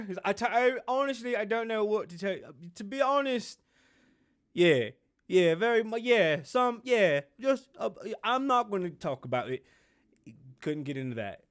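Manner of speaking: lightly mocking, stammered evasions; halting, flustered non-answer in a put-on voice; shook Harry. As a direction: imitate a rattled prince dodging the question. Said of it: "he was so shook".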